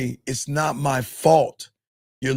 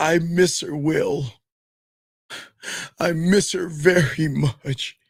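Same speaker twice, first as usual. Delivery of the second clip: weepy, tearful crying voice; 2 semitones higher than usual. Retelling a scene where a grieving king tells his jester: imitating someone crying. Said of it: "And he started crying and shit".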